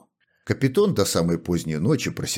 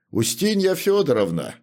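higher call to his wife in the next room; calling loudly; 11 semitones higher than usual. Acted. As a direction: call out to her across the house. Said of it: "крикнул он громким голосом".

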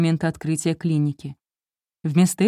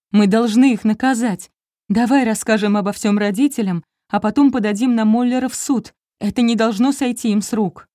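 angry demand; 5 semitones higher, 4 dB louder than usual. Acted. Wife demands punishing clinic.

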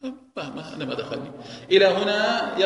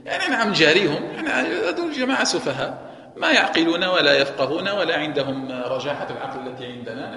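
mocking laugh; 4 dB louder than usual. Voicing the hypocrites' mocking boast.

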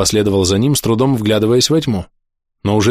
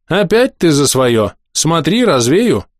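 threatening; 5 semitones higher, slower than usual. Acted. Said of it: "пригрозил маг".

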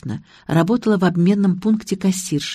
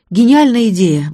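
louder, higher exclamation; admiring delight; 5 semitones higher, 6 dB louder than usual. A narrator's reading. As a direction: hail a brilliant idea with delight. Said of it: "восхитилась я".

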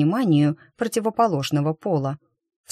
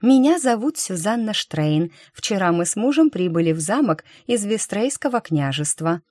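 sweet introduction; 4 semitones higher than usual. Acted. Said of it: "состроив самую милую улыбку".

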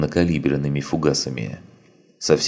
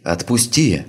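higher, louder pleading cry; desperate scream; 6 semitones higher, 3 dB louder than usual. Acted. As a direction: scream to be let go. Girl screams again, louder. (отчаянный крик)

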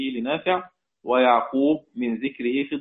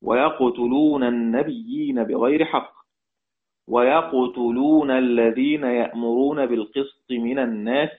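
Quran recitation. Shown as a demonstration. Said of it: "المقصود هو قوله تعالى".

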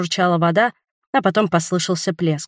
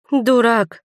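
sigh; 4 semitones higher than usual. A narrator's reading. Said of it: "вздохнула я".

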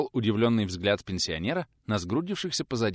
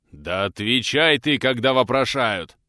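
louder, slow and forceful demand; raised voice; 3 semitones higher, 7 dB louder, slower than usual. Acted. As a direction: lose patience and push the voice up. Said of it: "повысил голос Дмитрий Иванович".

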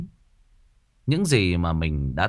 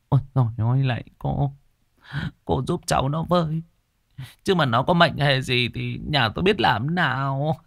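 sobbing plea; 3 semitones higher than usual. Acted. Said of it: "khóc nấc cả lên, quỳ xuống van xin".

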